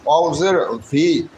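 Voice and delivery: slow ভি, neither heavy bh nor plain b; in-between w sound. Shown as a demonstration. Teacher corrects the letter, ভি midway between bh and b. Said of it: "এটা বড় ভাও হবে না".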